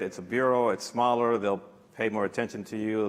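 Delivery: normal talking voice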